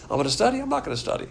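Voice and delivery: first rising, second falling; two choices contrasted. Shown as a demonstration. Teacher showing positive then negative volition, contrasted tune. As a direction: weigh one choice then reject it. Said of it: "positive volition and negative volition".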